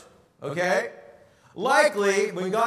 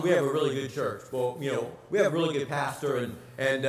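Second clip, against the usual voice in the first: lower, fast, gushing sales pitch to a visitor; mock eager church pitch; 9 semitones lower, 6 dB quieter, faster than usual. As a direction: rush the praise like you're selling the church.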